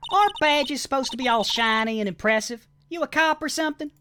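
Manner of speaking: a sassy country woman sizing up visitors; Southern witness voice. Acted.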